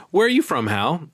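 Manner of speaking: high, suspicious questioning. Acted. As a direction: probe him, a little wary. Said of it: "a suspicious note in her voice".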